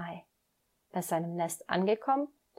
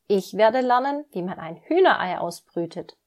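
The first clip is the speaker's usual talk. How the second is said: proud announcement; 6 dB louder than usual. Acted. Little duck Emil proudly shows his friend the egg, louder and beaming. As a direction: show it off like a treasure. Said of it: "Stolz hebt er das Ei".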